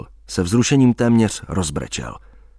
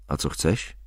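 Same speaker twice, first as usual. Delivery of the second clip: klidně; 6 semitones lower, 7 dB quieter than usual. Acted. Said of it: "odvětila klidně".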